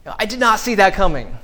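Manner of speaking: mock stunned reader of a twist; amazed surprise. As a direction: act blown away by a twist. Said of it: "There's like".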